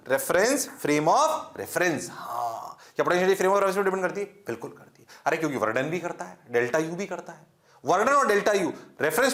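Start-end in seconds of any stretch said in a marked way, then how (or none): 4.3-5.1 unvoiced student reply; whispered answer. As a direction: breathe it out as a class answer. Teacher voices students answering.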